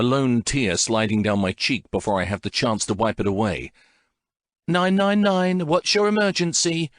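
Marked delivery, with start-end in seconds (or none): 4.7-6.9 higher, brisk call-handler voice; operator voice. Acted. Emergency operator answering a frantic caller, brisk. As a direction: answer like a routine dispatcher.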